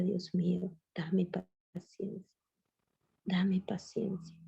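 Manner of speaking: soft, slow, pleading retold prayer; a quiet, broken plea to God, drawn out; tearful prayer. Alone in the bathroom after a fight, she pleads softly with God. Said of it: "yo me metía al baño llorando y decía".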